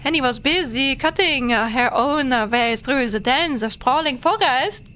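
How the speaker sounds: lilting, badly faked Italian accent; attempted Italian accent. Trying an Italian accent for the funnies, German showing through. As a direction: read it in a clumsy mock-Italian accent. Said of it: "try an Italian accent for the funnies".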